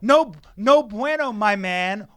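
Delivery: loud, slow hammed-up "No, no bueno"; mock Spanish. The speaker mocking his co-host's texts, loud mock Spanish. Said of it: "He becomes Spanish".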